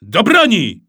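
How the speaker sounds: high, loud call to arms; boy playing musketeer yells to arms; battle cry. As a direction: shout it like a musketeer charging. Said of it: "krzyknął Maksencjusz".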